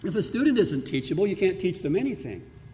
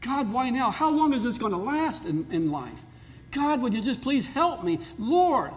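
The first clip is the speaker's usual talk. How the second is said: pleading prayer; 5 semitones higher than usual. Retold or imitated. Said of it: "there are times I say".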